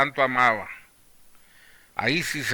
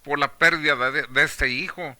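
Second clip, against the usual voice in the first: questioning God; 4 semitones higher, 5 dB louder than usual. Acted. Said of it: "sin cuestionar a Dios".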